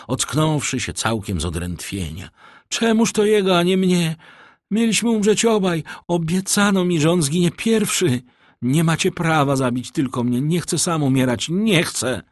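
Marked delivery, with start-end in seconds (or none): 2.7-12.2 high, frantic protesting cries; yelling protest. A narrator's reading. Condemned man refusing to die alone, yelling. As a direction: protest wildly, pitch kept high throughout. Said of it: "Wrzeszcząc, klnąc i szamocąc się".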